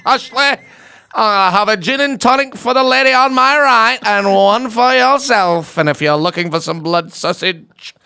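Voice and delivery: booming, drawn-out northern English character voice; hammed-up northern English bluster, slow and loud; Fred Elliott impression. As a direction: start high and loud, stretch it out, then settle. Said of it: "who did you watch or who you inspired".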